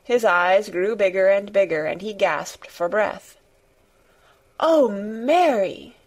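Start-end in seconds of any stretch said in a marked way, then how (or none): 4.6-6.0 high, slow, overwhelmed cry; half-sobbing cry. A narrator's reading. Weak boy overcome by the news, crying out half sobbing. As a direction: draw it out slowly, half sobbing. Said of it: "cried out with a half sob".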